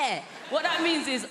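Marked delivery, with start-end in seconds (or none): 0.0-0.2 high fake yes. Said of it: "The higher our voices go, the less we're about it".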